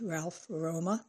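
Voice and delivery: slow, soft sneering name; slowly sneered Ralph Roma; acid scorn. Acted. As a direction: spit the name with quiet contempt. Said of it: "Her tongue dripped acid as she repeated".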